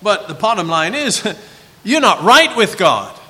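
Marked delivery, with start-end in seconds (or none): 1.8-3.2 accusing taunt. Acted. Preacher voicing Satan's accusation.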